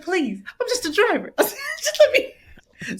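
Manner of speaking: high, pleading whine; whiny high plea. Retold or imitated. Pleading with the door ladies to let her in, high whiny whine. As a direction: stretch the plea out, begging.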